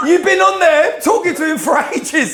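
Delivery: high-pitched imitation of wifely disbelief; mock scolding. Wife who watched the doorbell camera, mock-scolding.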